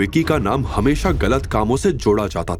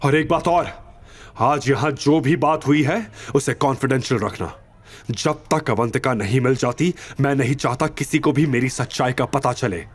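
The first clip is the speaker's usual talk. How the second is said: higher, tense orders; urgent commanding hero; 4 semitones higher than usual. Acted. Boss orders his assistant to get the car, urgently.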